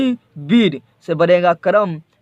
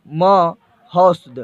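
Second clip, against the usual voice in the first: महोस्द drawn out slowly, syllable by syllable; slow syllable demo; much slower than usual. Shown as a demonstration. Teacher to students, sounding out महोस्द very slowly. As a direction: spell out महोस्द slowly for the class. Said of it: "ऐसे रहेगा महोस्द".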